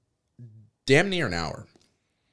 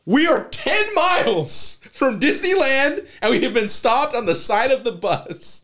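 fuming shout at the broken-down bus; angry yelling; 9 semitones higher than usual. Retold or imitated. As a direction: yell every word of it out. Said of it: "He's like".

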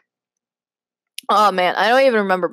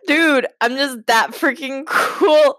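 hammed-up action hero line, higher and drawn out; mock cool hero; 6 semitones higher, 3 dB louder, slower than usual. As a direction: play the too-cool hero, half laughing. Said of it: "just like".

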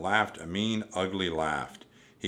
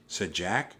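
ordinary delivery, nothing marked

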